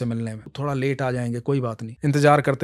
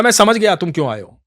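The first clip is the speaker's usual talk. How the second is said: higher, louder bickering; quarrel; 4 semitones higher, 5 dB louder than usual. Acted. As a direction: argue back and forth. Quarrel while walking.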